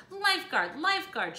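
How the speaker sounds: high, loud calling out; crying out. Acted. Missus Hipple summoning the lifeguard, loud high call. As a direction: call for the lifeguard across the beach. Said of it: "she cried".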